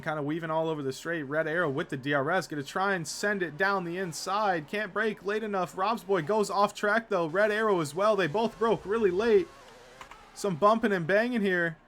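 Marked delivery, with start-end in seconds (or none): 2.5-11.8 excited. Real, not acted. Live call of battle.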